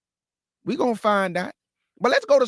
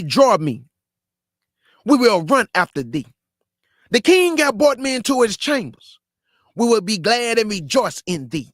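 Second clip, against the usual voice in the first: scripture reading. Acted. Preacher reading the Song of Solomon to listeners, declaiming. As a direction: read it out like holy writ to the crowd.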